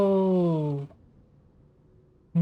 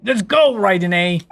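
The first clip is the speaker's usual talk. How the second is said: excited cheer; 3 dB louder than usual. Real, not acted. Cheering on the fight.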